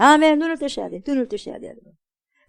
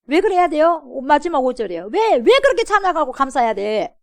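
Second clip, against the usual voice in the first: normal talking voice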